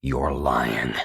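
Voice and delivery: low, mechanical repetition. Acted. Tony stunned, repeating mechanically. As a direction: repeat it by rote, dazed. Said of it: "he repeated mechanically".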